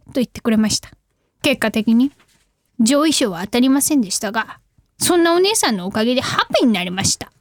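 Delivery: low-pitched, casual caller role; phone caller. Acted. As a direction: play the caller recounting an incident. Plays a phone caller reading letter.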